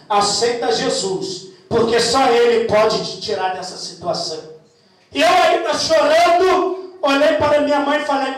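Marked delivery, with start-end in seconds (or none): 0.1-4.6 gentle mother's plea. Retold or imitated. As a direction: lightly voice the mother, lower and slowed. Mother voiced urging faith.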